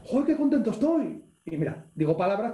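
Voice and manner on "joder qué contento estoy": high-pitched, exuberant exclamation; overjoyed, voice leaping up; very happy. Shown as a demonstration. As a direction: burst out with acted delight. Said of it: "Si yo estoy muy contento".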